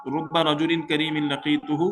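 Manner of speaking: slow, careful Arabic recitation; slow Arabic reading. Shown as a demonstration. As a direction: spell out each Arabic word slowly. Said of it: "تو معنی اس کا کیا ہوگا". (آہستہ عربی قراءت)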